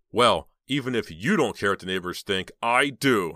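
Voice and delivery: loud angry retort. Acted. Uncle angrily scolds Heather about the neighbors, loud. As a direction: bite back at her, angry. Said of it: "he said angrily".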